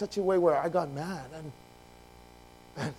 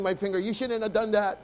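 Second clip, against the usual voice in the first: higher, scolding outburst at a driver; acted road-rage scolding; 3 semitones higher than usual. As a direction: tell off the driver who cut you off. Acting out anger at bad driver.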